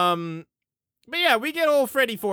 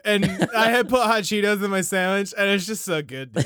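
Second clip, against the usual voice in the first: stoner. Retold or imitated. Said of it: "you sounded like a fucking stoner there".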